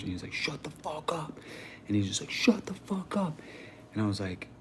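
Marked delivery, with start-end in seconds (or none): 0.3-1.4 retold angry outburst. Retold man getting angrier at him. 2.3-3.4 high, strained mock yell held under full volume; hushed high-pitched imitation of someone fed up; retold angry outburst. Retold man snapping at repeated preaching.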